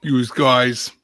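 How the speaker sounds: mock New York City "yous guys"; New York accent. Calling it a New York City thing, New York accent. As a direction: say it like a New Yorker. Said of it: "like a New York City thing".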